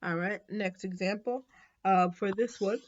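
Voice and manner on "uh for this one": words stretched by a yawn. Real, not acted. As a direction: talk through a yawn. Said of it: "sorry for yawning".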